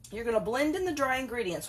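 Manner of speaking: usual speaking voice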